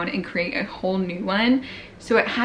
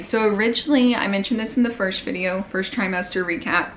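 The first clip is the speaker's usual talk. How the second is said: out of breath. Real, not acted. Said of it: "I'm so sorry I'm out of breath".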